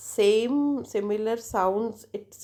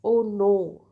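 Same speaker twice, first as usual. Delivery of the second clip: louder, drawn-out "Oh no"; intonation demo; 6 dB louder than usual. Shown as a demonstration. Teacher showing students how intonation sounds, demonstrative. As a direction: say "Oh no" with added force. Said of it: "suppose if I say that".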